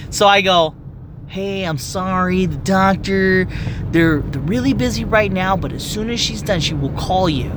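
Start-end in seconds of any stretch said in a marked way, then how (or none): 1.3-7.5 courteous front-desk voice; nicer. Retold or imitated. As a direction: soften the message kindly. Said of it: "I said it a lot nicer".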